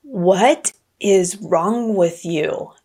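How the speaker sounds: lightly acted big tiger, slow and incredulous; a hint of a stern big tiger, words spaced out; big male tiger. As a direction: draw out the question, lightly playing a big tiger. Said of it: "the big male tiger comes over to the smaller tiger and goes".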